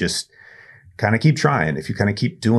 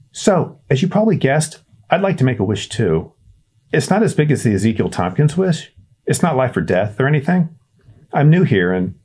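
put-on high, hesitant kid voice; a nervous boy calling down a well; shy boy Winston; 8 semitones higher than usual. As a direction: Winston introducing himself awkwardly. Winston making a lonely wish.

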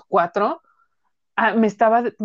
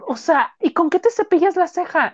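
incredulous outburst; 7 semitones higher, 4 dB louder than usual. Retold or imitated. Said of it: "Y yo".

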